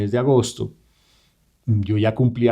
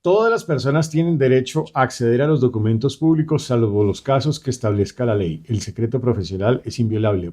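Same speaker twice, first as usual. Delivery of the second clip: formal reading of a legal article; reading aloud. Acted. Reads the Constitution aloud.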